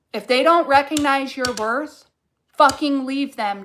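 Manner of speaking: rising passion, driving the point home; getting passionate. Real, not acted. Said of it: "Ooh, I'm getting passionate".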